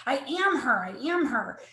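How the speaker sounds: retold indignant protest, pitch lifting at first; mild, insistent pushback that eases off; defiant denial. Widow fighting a colleague's hurtful statement, defiant. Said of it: "I would cry and I would fight it".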